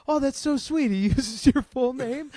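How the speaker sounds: high, gushing well-wisher; mock sincere gushing. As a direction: imitate someone sweetly touched. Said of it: "some sincere people being like".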